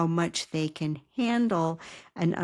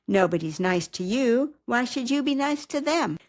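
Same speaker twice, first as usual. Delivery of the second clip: bullying voice; 4 semitones higher, 3 dB louder than usual. Shown as a demonstration. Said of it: "Won't your character love hearing that voice?".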